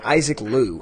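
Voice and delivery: Liu said as "Loo"; mispronounced surname. Shown as a demonstration. Host showing how he has been saying the guest's name, mispronounced Liu. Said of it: "we've been mispronouncing it".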